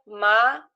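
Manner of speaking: MALEÃO split as ma, leão; syllable by syllable. Shown as a demonstration. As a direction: sound out "maleão" with a gap after ma. Teacher sounding out syllables to join.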